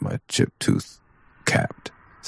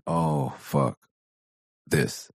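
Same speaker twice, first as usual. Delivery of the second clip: softer, let-down sigh of a line; deflated; 6 dB quieter, much slower than usual. Retold or imitated. Dad finding no danger, softer and deflated. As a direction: mutter it as the letdown hits. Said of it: "and I'm like".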